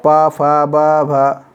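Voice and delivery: ट, ठ, ड, ढ each said slowly with pauses; teacher lists the ट-group letters slowly one by one; spelled-out letters. Shown as a demonstration. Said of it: "पवर्ग".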